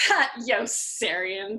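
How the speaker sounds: very slow drawn-out officers' voice. Acted. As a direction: lean on the name, teasing. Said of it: "they said more loudly".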